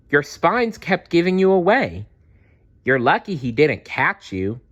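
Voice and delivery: put-on high, eager young dinosaur voice; excited little Maya. Maya cries out to Dazzle, high and eager. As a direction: Maya scolding her friend with relief.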